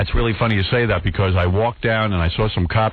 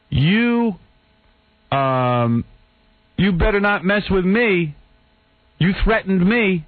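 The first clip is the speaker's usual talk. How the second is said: higher, slow accusing voice; mock indignant photographer; 7 semitones higher, much slower than usual. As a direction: imitate him playing the victim. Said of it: "He goes".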